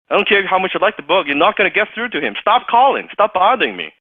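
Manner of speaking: fast, high, loud mock scolding; annoyed brush-off. Assistant ordering the caller to stop, fast and heated.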